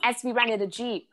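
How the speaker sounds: high-pitched mock-alarmed report; mom relaying news. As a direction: pass on alarming news as the mother.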